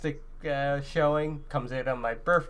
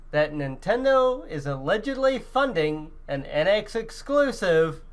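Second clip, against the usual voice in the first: suspenseful build-up; 4 semitones higher than usual. Real, not acted. Builds suspense before revealing rumor.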